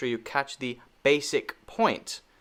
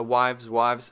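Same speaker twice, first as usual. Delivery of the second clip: "wives" said fast as one syllable; said quickly. Shown as a demonstration. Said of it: "saying it quickly".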